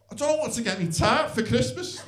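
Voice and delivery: light imitation of a broad Scouse accent, amused; a hint of broad Scouse, laughing through it. Shopper tells his friend about a gift, lightly Scouse. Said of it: "in the most broadest Scouse accent".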